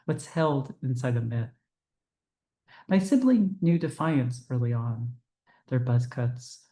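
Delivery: measured poem recital, phrases set apart by pauses; poetry reading. Acted. Poet reading their own poem to a Zoom audience, measured recital. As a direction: read each line as verse, letting it settle before the next.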